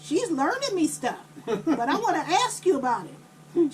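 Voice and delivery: lightly voiced child, starting high; little boy. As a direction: imitate a young boy explaining himself. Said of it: "he was only seven or eight".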